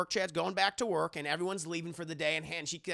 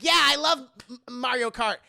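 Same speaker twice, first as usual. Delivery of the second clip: excited mock quote; 7 semitones higher, 8 dB louder than usual. Anastasia mishears game room.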